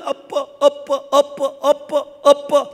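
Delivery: high, loud repeated cries of 아빠; child calling daddy. Retold or imitated. Shaken son keeps calling his father, loud child's cries. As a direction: call out like a frightened toddler.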